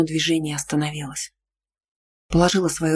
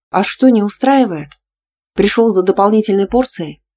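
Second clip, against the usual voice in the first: loud and angry; 4 semitones higher, 4 dB louder than usual. A narrator's reading. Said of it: "громко процедив".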